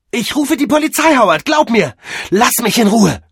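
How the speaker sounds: loud, high, angry warning; shouted threat. Acted. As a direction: yell at him to back off. Mavis threatens him while being followed. (wütend gebrüllte Drohung)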